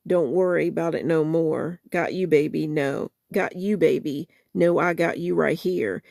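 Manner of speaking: soulful spoken-word recital of a love song; spoken-word lyric reading. Acted. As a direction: read the song words with feeling, half-performed.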